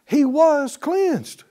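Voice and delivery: jubilant shout. Real, not acted. Preacher rejoicing at healing.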